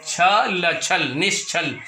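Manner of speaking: छल, छल, निश्चल broken into parts, very slowly; syllable demo. Shown as a demonstration. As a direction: build up निश्चल piece by piece. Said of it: "जैसे आपने किया निश". (छल, छल, निश्चल को टुकड़ों में धीरे बोलिए)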